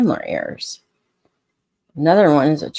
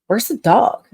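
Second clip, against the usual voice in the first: higher, slow, drawn-out commercial catchphrase; higher, slow imitation of the burger ad line; Where's the beef lady; 7 semitones higher, slower than usual. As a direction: quote the old ad lady, stretching each word. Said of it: "Burger King, where she's like".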